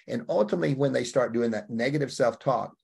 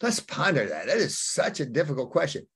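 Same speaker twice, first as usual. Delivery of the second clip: mock pondering; 4 semitones higher than usual. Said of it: "most people go like".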